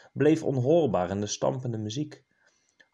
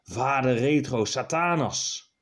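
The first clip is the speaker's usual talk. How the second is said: roared exorcism. Acted. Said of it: "brulde hij".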